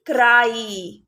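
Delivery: क्राई with the final आई held long; teacher stretching क्राई on its long I; long I ending. Shown as a demonstration. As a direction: draw out the आई in क्राई, slowly. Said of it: "long आई sound की तरह होता है".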